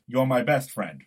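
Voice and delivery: a light Gosling-style voice with a hint of Brooklyn; Ryan Gosling impression. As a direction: deliver the film line as a mild impersonation, stressing BEST. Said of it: "That was my Ryan Gosling impression".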